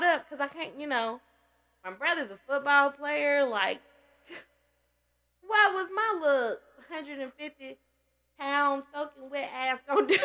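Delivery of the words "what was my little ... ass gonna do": teary laugh breaking through the words; real laughter through tears; laughing while tearful. Real, not acted. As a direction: laugh it out half crying.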